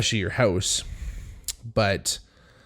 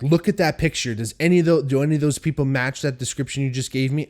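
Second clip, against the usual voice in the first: harsh; 4 semitones higher than usual. Retold or imitated. Man demands police compare his roommates' photo, harsh exaggerated demand. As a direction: push it at them like an accusation. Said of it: "I wasn't being this fucking harsh".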